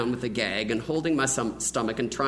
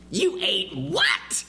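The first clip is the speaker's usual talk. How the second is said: frantic mother; 6 semitones higher, much slower than usual. Retold or imitated. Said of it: "his mother exclaimed in a frenzy".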